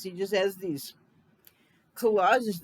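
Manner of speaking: words catching in the throat; choking. Real, not acted. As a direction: choke slightly on the words. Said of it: "I'm choking".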